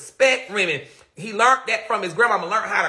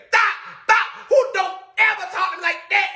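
imitating dad; 10 semitones higher, faster than usual. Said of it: "he just said".

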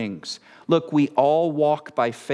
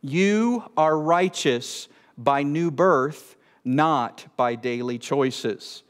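slow summation; slower than usual. Real, not acted. Preacher summing up the warning, slow summation. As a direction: spell it out slowly.

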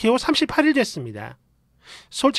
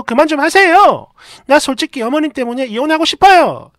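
outburst; 2 semitones higher, 5 dB louder than usual. Retold or imitated. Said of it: "확 질러버렸더니".

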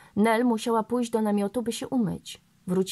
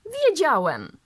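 high, loud mock outrage; mock indignation; 7 semitones higher, 6 dB louder, slower than usual. A narrator's reading. Rawlinson teasing the girl, higher and louder, with mock indignation. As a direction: exclaim in pretend indignation. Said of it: "zawołał z udanym oburzeniem".

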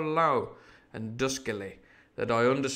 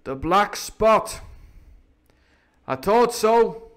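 slow, louder, higher pirate voice; grim pirate; 8 semitones higher, 7 dB louder, much slower than usual. Acted. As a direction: drag the words out knowingly. Silver reads the black spot.

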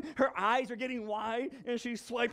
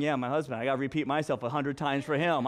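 lightly voiced weary wife; mock complaining wife; 7 semitones lower, faster than usual. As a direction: lower voice, a touch of a tired wife. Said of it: "Why are wives saying".

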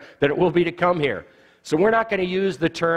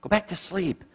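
Satan hushing. Acted. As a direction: coax them back to sleep, hushed and sly. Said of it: "he kind of grabs that cradle spiritually and goes".

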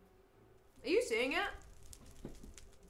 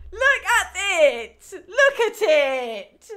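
laughing; 8 semitones higher, 14 dB louder, much slower than usual. Real, not acted. Laughing while gushing.

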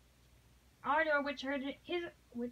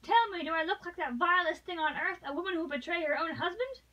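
higher and louder, wounded indignation; indignant plea; 4 semitones higher, 5 dB louder than usual. Acted. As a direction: demand he look at her. Marguerite pleads urgently.

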